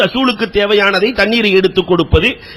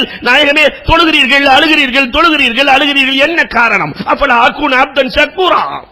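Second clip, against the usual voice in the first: voicing Bilal's plea; 9 semitones higher, 3 dB louder than usual. Bilal and the Prophet voiced.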